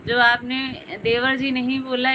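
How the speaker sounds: ordinary talk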